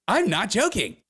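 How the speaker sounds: very high, exaggerated insistence; mock emphatic woman. Woman demanding that you believe her, mock emphatic and high. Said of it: "She talks like this".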